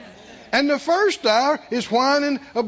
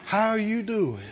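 pitiful voice. Shown as a demonstration. Pastor mocking how people ask after someone, pitifully. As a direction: ask "How are you doing?" as if for a sick friend. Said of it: "ask that in a pitiful voice".

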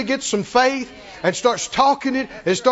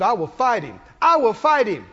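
growing resolve. Retold or imitated. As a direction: vow building from moderate to firm. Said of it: "It just gets stronger and stronger".

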